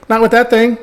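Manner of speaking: high, loud mock scolding; loud overruling dad. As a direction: shout down your son's confidence, imitating dad. Dad objecting, retold.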